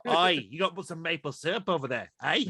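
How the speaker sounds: mock Aussie mixed with Canadian; badly faked Australian-Canadian accent; playful put-on Australian accent with a Canadian tag. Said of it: "a bad Australian accent at best".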